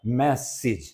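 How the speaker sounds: मैसेज with a short "i" in the second syllable; correct pronunciation. Shown as a demonstration. Teacher repeating the model for students, मैसेज ending in short "-sij". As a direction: say मैसेज as "MESS-ij", falling at the end. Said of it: "क्या pronunciation होता है".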